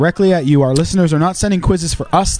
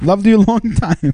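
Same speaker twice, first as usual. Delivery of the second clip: higher, hammed-up Chinese accent; mock Chinese accent; 4 semitones higher than usual. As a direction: put on a crude Chinese accent. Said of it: "makes it sound like Confucius".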